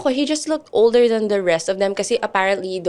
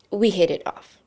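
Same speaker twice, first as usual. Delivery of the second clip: normal talking voice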